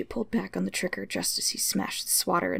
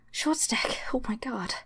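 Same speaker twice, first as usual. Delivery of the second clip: relieved high cry; 5 semitones higher than usual. Acted. Relief after villain dies.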